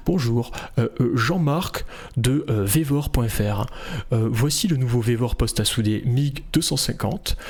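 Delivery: halting, dull product presentation full of hesitations; mock a tedious rival's stiff video intro; boring competitor. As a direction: drone through a lifeless corporate demo. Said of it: "ils sont chiants".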